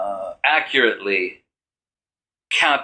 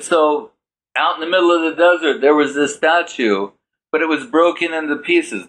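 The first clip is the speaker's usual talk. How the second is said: animated storytelling; 5 semitones higher than usual. Retold or imitated. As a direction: tell it with building excitement. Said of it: "retelling with rising energy".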